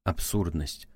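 ordinary delivery, nothing marked

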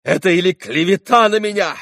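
frantic outcry against slander; shouting. A narrator's reading. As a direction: hurl the denials at them. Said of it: "продолжал кричать Митя".

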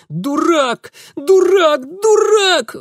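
high, loud squeals building up; shrieking. A narrator's reading. Child beating Mitya with fists, shrieking and sobbing. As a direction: squeal it with tears. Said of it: "он верещал".

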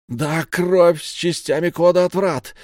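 high, loud shout stressing кровь; insisting on the blood, loudly. A narrator's reading. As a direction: yell it back at him. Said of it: "выкрикнул Састер".

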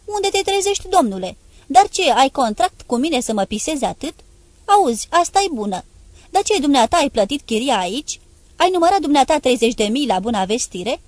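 high, loud indignant scolding; outraged landlady rant; furious tirade. Acted. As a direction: put him in his place, loudly. Emilia berating Ladima about rent.

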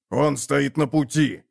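slow menacing growl. Acted. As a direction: growl it out slowly. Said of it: "прорычал Като".

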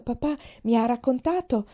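the words break off as tears come; a girl's voice caught by a sob; voice catching on a sob. Acted. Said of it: "la sua voce era stata bloccata da un singhiozzo".

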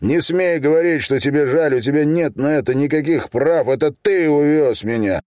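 furious accusations. Acted. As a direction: hurl every accusation at him. Son yells accusations at father.

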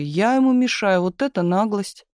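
high, outraged declaration; indignant pathos. Acted. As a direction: play to an imaginary crowd. Miša to imaginary audience.

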